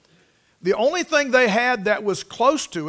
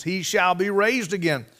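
deliberate repeat, weight on "raised again"; emphasis on RAISED AGAIN. Shown as a demonstration. Preacher pointing congregation to the phrase, stressing "raised again". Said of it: "Notice the emphasis".

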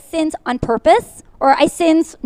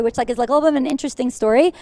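rushed, fast delivery; racing through the words; quick nervous pace; talking fast; faster than usual. Real, not acted. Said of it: "I will do my best to slow down".

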